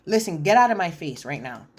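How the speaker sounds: quoting an angry man mid-rant, hammed-up fury; retold heated rant. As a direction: imitate him going off in a fury. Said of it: "I'm heated".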